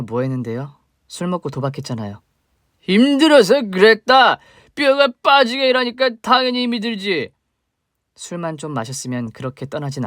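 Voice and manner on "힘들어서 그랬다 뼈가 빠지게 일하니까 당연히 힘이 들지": put-on a sloppy drunk spitting out old grudges; drunk father. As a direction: drunk father accusing the woman he mistakes for his wife. Drunk father confronts ex-wife.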